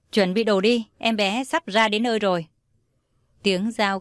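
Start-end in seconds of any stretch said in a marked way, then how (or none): 0.1-2.5 doctor shouting orders. Acted. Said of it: "hét ầm lên".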